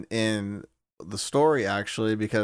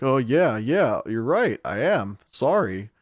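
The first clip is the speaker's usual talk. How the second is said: drawn-out, swooping agreement; slow, wavering "oh, right" delivery; mock sheepish relief; 3 dB louder than usual. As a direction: play an exaggeratedly flustered apology. Acting nervous Tristan calming down.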